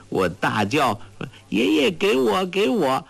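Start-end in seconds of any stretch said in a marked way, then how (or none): 1.5-3.0 shouting for grandpa. Acted. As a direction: cry out like a child begging. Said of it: "说到这儿，当真大叫起来". (孩子气地高声大喊)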